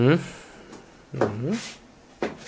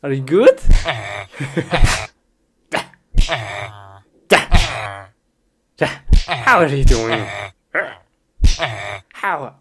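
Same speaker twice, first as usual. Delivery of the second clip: polite greeting; 3 semitones lower, 5 dB louder than usual. Pretend. Greeting a game character.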